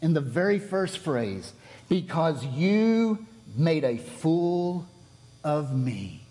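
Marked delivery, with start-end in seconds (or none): 1.9-6.2 slow emphasis. Shown as a demonstration. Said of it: "Balaam reveals his heart".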